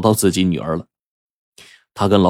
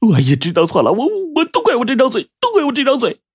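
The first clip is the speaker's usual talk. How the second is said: remorseful pleading. Acted. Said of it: "这八狗脸一白".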